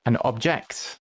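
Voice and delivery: "object" as OB-ject after "An"; noun stress. Shown as a demonstration. Gamer demonstrating the noun, "object" as OB-ject. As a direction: stress the first syllable of "object". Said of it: "on the first syllable".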